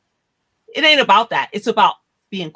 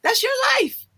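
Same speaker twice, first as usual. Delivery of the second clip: emphatic; 12 semitones higher than usual. Real, not acted. Lecturing about a child's choices.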